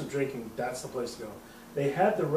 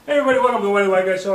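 show intro; 6 semitones higher, 11 dB louder, much faster than usual. Real, not acted. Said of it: "podcast intro".

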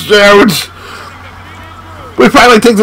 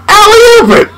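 excited call; 11 semitones higher, 3 dB louder than usual. Real, not acted. Calling the play.

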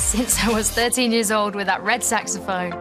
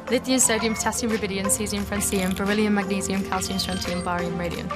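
rattled-off list; 3 dB quieter than usual. Shown as a demonstration. Reciting periodic table by heart.

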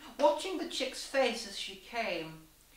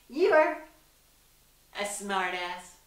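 gasped; 7 dB louder, slower than usual. A narrator's reading. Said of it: "the chick gasped".

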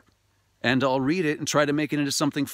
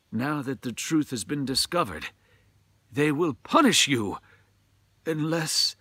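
lightly voiced old priest warning; ominous priest. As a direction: leave the threat hanging. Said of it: "said the priest".

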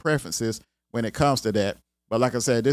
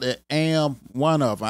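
country accent. Shown as a demonstration. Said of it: "that's my country accent coming out".

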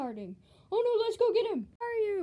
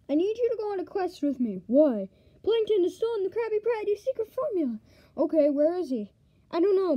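fast eager chatter; excited; 6 dB louder than usual. Acted. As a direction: rush the words out. Excited rapid dialogue.

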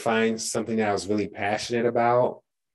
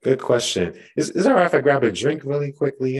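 dry mouth; 4 semitones higher, 4 dB louder, faster than usual. Real, not acted. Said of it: "my throat is a little parched".

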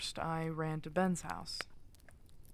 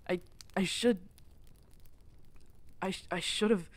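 anguished self-blame; 2 semitones higher, 5 dB louder than usual. Acted. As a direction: cry out the guilt, stumbling over the words. Breaking down over lost pack.

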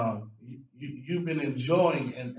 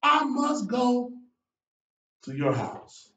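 calling out; 9 semitones higher, 3 dB louder, much slower than usual. Retold or imitated. Jesus calls Zacchaeus down.

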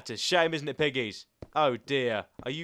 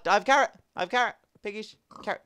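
excited calling; 5 semitones higher, 5 dB louder, faster than usual. Real, not acted. Tempting animals with a carrot.

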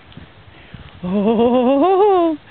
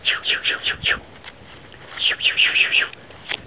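shooing; 7 dB quieter than usual. Real, not acted. Shooing animals away.

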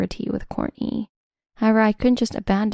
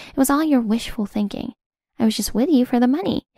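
scornful outburst; 3 semitones higher than usual. Acted. Kristen lashes out at Ted.

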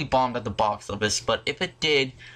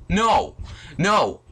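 emphatic no; 4 semitones higher, 3 dB louder than usual. Real, not acted. Mock answers about the sequel.

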